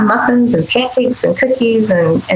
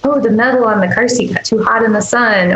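put-on soothing a toddler; 4 semitones higher than usual. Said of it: "I would go".

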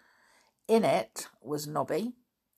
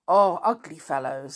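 a chatty country farm woman; lightly voiced farm wife, homely and gossipy; Missus Mackey; 7 dB louder than usual. Farm woman describes the men.

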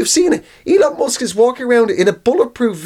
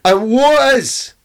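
put-on drunk Scottish Elon; 2 semitones higher than usual. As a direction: slur it like a Scot at the bar. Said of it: "all of it is whiskey".

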